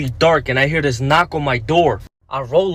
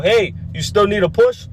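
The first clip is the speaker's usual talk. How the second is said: retold yell; 5 semitones higher than usual. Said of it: "so I just yell".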